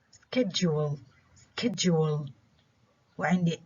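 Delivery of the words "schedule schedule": "Schedule" modelled twice, stressed on SCHED; first-syllable stress. Shown as a demonstration. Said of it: "examples of stress on the first syllable".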